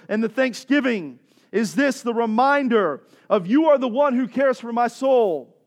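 loud, insistent declarations; full-force preaching. Real, not acted. Preacher speaking out over the congregation, full-force declaration. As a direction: proclaim it over the congregation, drawing out the last words.

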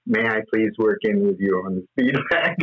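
lightly imitated courteous request; mildly childlike, careful politeness; polite, childlike. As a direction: ask very politely, almost like a child. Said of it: "in the most polite, childlike way".

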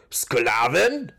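loud, outraged exclamation; indignant cry. A narrator's reading. Torvald hears his friend called a slave, indignant. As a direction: cry out in disbelief. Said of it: "rief Torvald empört auf".

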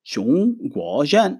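צ'ונג גו ז'ן said slowly with clear Mandarin tones, rising on ז'ן; slow Chinese demo. Shown as a demonstration. Teacher modeling Chinese for the students, slow. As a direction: model צ'ונג גו ז'ן syllable by syllable, ending on a rise. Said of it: "לדוגמה".

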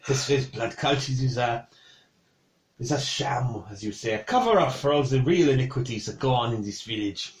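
put-on measured, dismissive French accent. Cook calls the blood cult a sham, French accent. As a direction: explain it away in a French accent. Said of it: "annoyed that you can do that".

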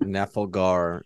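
"Nafalgar" repeated slowly, na-fal-gar; drawn-out echo of "Nafalgar"; echoing the wrong name. Retold or imitated. Teasing her co-host's slip, slow echoed "Nafalgar". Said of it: "I keep going to say Nafalgar".

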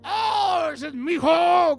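high, loud proud exclamation; excited new parent. Retold or imitated. Father and mother hear their newborn, overjoyed shout. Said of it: "ya oigo al papá, la mamá".

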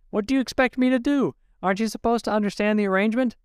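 husband barking at his wife on the phone; barked. A narrator's reading. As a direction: snap at her, fast and harsh. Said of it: "he barked".

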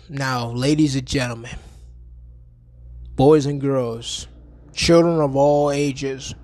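slow showman announcement; ringmaster. Acted.

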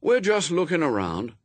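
put-on high, casual boy's excuse; airy. A narrator's reading. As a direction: toss it off lightly. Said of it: "said Adam airily".

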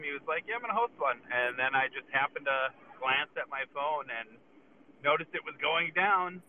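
muffled speakerphone audio; on speaker in a moving truck; underwater. Real, not acted. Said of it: "That's why I sound like I'm underwater".

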